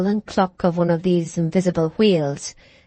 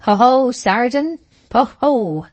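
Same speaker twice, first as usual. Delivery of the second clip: louder, higher mocking ho ho; jeering ho ho; 5 semitones higher, 3 dB louder, slower than usual. A narrator's reading. Soldiers behind the wall teasing the sergeant, jeering. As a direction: rib him with a teasing laugh. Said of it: "a subdued exclamation was heard".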